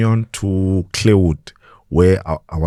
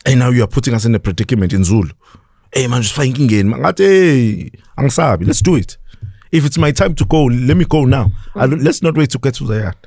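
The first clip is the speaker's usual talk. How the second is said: fearless outburst; 5 semitones higher than usual. Retold or imitated. Speaker telling hijackers he is not afraid, higher. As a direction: declare you're not scared.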